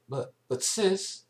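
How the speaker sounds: put-on very high, slow child voice; pleading little girl. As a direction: plead timidly like a small filly.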